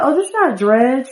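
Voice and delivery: a hint of a girl correcting a compliment; correcting Sim girl.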